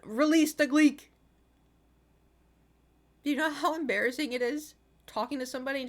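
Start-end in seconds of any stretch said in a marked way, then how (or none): 0.0-1.1 mouth's voice. Retold or imitated. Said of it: "my mouth's like".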